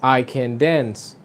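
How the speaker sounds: slow, "dance" stressed and falling. Shown as a demonstration. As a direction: land the weight on "dance". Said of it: "el énfasis irá en la palabra que va después de can". (énfasis en "dance", lento)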